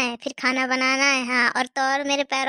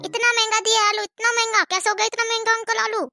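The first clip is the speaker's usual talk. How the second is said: mock outrage at price; 5 semitones higher than usual. Customer shocked at price.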